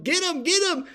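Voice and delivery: high-pitched urgent call, repeated; imitating brother's yell. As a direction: call out to grab the loose calf. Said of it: "my brother Benny's yelling".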